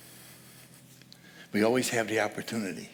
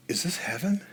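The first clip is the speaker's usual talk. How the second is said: whispered, awed, a rising question; 5 semitones higher, 5 dB quieter than usual. Retold or imitated. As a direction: breathe it out in wonder. Ghost asks at film's end.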